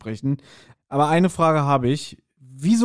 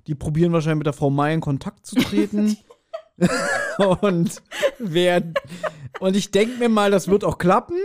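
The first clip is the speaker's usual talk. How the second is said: laughing; 3 semitones higher than usual. Real, not acted. Laughing while speculating.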